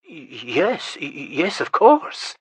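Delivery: frightened stutter that jumps up; shaky voice. Acted. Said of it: "said Varson in a shaky voice".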